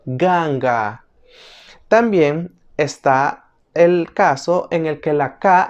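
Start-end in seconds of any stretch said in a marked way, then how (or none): 0.1-1.0 GANGA with hard voiced g in both syllables; K sounded as G. Shown as a demonstration. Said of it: "y suenan como G".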